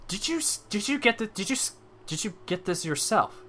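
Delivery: high-pitched, stumbling question; impressed amazement. Acted. Merchant examines Takari's bear pelt, impressed amazement.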